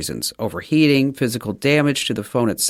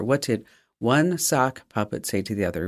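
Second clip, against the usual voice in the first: softer, lower repeat of the riddle; hushed joke setup; 4 semitones lower, 7 dB quieter than usual. Shown as a demonstration. Host teasing the joke to listeners, hushed. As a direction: lean in and tease the riddle.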